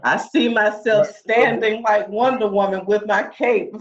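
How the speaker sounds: words carried on a real laugh. Real, not acted. Guest joking to the host about her cape, laughing. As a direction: laugh through the superhero picture.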